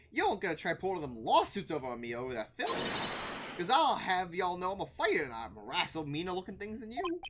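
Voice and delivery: warning in a Southern twang; feisty Southern character. Acted.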